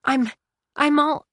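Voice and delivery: start, stop, fail to finish; words failing from shock; faltering. A narrator's reading. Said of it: "words wouldn't come to her".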